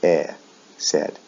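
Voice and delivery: short "eh", then "said" with that vowel. Shown as a demonstration. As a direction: model "said" with a clear eh. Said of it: "The pronunciation is a short E sound".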